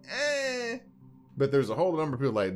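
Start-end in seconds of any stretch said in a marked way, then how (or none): 0.1-0.8 high dismissive eh; unimpressed eh. Retold or imitated. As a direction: shrug it off. Indifferent crowd reaction.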